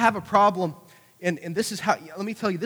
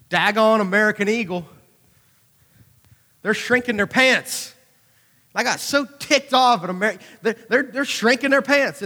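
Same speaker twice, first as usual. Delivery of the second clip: loud, higher mock outrage at the store brand; mock indignation; 5 semitones higher, 6 dB louder than usual. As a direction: fume about shrunken pants, hammed up. Retelling being ticked off.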